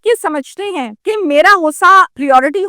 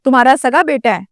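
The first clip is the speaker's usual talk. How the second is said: retold police question in usual voice; 2 semitones lower than usual. Police officer questions the father about his son, questioning. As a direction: put it as an officer's plain question. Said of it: "تو police نے پوچھا".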